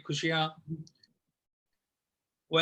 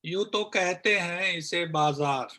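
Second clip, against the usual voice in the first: poem recitation. Acted. Recites own poem on corona. (कविता पाठ, आख़िर में धीमी पड़ती आवाज़)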